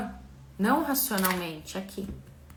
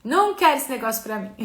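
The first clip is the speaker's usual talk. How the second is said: emphatic exclamation; 5 semitones higher, 3 dB louder than usual. Retold or imitated. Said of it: "Hoje eu falo".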